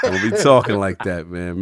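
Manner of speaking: laughing scold. Real, not acted.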